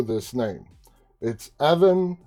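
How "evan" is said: Greek pronunciation. Shown as a demonstration. Host showing how to say a Greek name, in Greek pronunciation. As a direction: say Spilotopoulos with rounded Greek vowels. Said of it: "I gotta say it in Greek".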